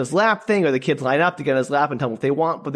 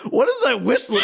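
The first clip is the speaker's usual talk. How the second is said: mock startled shout; 7 semitones higher than usual. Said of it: "I was just like".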